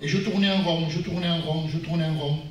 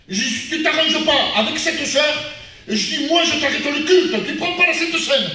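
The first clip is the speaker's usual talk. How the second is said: a firm, half-heated scolding, higher and louder; mildly angry rebuke; 8 semitones higher, 4 dB louder, slower than usual. Retold or imitated. Preacher retelling how he scolded his mother, mildly angry. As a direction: lay down the law to his mother with some heat. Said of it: "un peu en colère".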